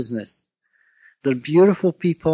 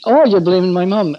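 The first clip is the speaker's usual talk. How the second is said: a hint of an accusing wife, rising oh; lightly voiced wife, hurt and accusing; mock wife; 3 semitones higher, 4 dB louder than usual. Husband imitating his wife blaming him, mock accusing. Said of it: "And she'd say".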